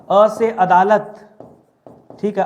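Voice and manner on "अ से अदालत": each word drawn out very slowly for the class to memorise; slow rote drill. Shown as a demonstration. Teacher drilling students to memorise words, slow and deliberate. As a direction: chant it slowly so they can learn it by heart. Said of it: "कुछ चीजें मैं आपको रटा दे रहा हूँ".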